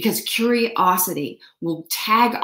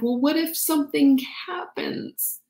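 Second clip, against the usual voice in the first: worried unvoiced whisper; anxious whisper; 6 semitones higher than usual. Acting the fearful inner voice, in a worried whisper. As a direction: whisper it like a worry. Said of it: "You're like".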